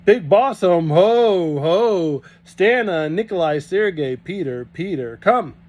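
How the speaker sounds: Russian farmhand bellowing. A narrator's reading. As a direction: call the Russians in with a roar. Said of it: "He bellowed".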